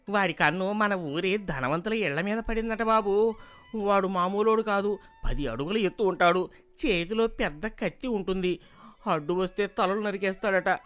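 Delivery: alarmed villager. Acted. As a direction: gossip the danger in a worried rush of news. Villager brings alarming news. (గ్రామస్తుడి గొంతుతో భయపెట్టే వార్త)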